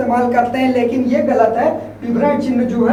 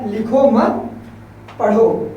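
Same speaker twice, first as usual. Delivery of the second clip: brief pause after "लिखो मत", then "पढ़ो"; comma pause; slower than usual. Shown as a demonstration. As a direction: read "लिखो मत", stop for a moment, add "पढ़ो". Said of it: "थोड़ी क्षण के लिए रुकना है".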